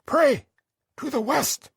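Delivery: firm order. Acted. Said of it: "It was not a request, ... an order".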